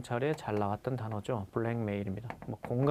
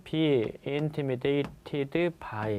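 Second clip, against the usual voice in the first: slow dictation; much slower than usual. Shown as a demonstration. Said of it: "수동태로 쓰라고 그러면".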